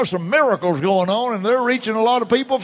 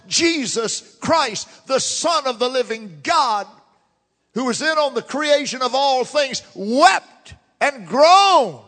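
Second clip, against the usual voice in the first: slow solemn build; 5 semitones higher than usual. Real, not acted. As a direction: stretch every word and swell into "wept and groaned".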